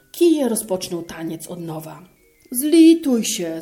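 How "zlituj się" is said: loud, slow, higher pleading cry; begging for mercy. A narrator's reading. Beaten innkeeper begging the turner to stop, loud cry. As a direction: plead loudly while being beaten. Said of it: "zawołał karczmarz".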